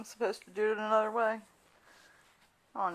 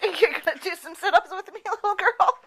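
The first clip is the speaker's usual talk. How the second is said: talking to a dog; 7 semitones higher, 5 dB louder than usual. Real, not acted. Talking to dog, higher, louder.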